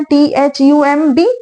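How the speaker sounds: each letter of "टी एच यू एम बी" said slowly and separately; spelling out letters. Shown as a demonstration. Teacher spelling thumb for students, letter by letter slowly. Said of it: "थम का spelling क्या है?".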